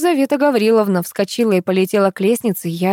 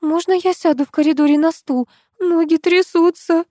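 shaken voice; 10 semitones higher than usual. A narrator's reading. Shaken woman asks to sit.

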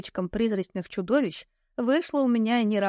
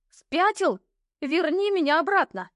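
outraged; 7 semitones higher than usual. Acted. Heroine demands the knight send her home, outraged. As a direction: tell him off, furious.

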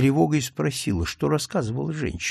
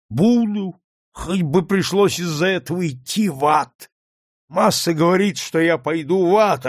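higher, louder bitter woman's voice; raised, anguished voice of an old slave woman; bitter drunk woman; 5 semitones higher, 3 dB louder than usual. A narrator's reading. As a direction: spit out a wretched woman's despair. Prue's bitter confession.

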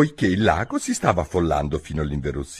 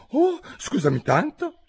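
cried out. A narrator's reading. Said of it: "gridò Alice tutto d'un fiato".

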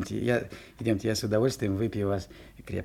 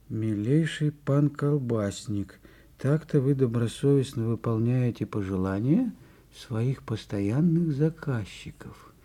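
reading the note. Acted. Reading fox's note aloud.

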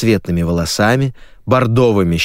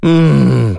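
higher, louder moan of despair; stressed host groaning; exasperated groan; 5 semitones higher, 4 dB louder than usual. Acted. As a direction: groan like a host at his wits' end. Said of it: "простонал Сергей".

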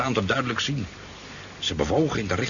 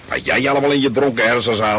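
louder, scoffing mockery of a drunk's tale; mocking friends; 4 semitones higher, 7 dB louder than usual. Friends ridiculing his drunken story, mock scoff. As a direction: imitate friends laughing him off. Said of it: "hebben ze me vierkant uitgelachen".

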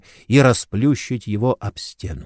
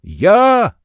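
высокий громкий выкрик «Я!»; выкрикни громко и высоко; крик; 10 semitones higher, 6 dB louder than usual. A narrator's reading. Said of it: "закричал в ответ старый Слей". (старый Слей кричит демону: высокий выкрик)

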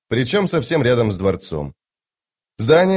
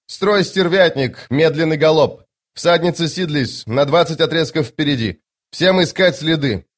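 roaring rallying speech; 6 semitones higher than usual. Acted. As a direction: bark battle orders to the troop. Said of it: "обратился к воинам". (громкий командный призыв)

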